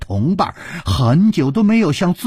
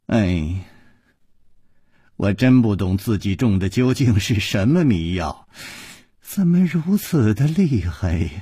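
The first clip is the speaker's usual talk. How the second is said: sighing. Acted. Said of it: "楚留香叹道".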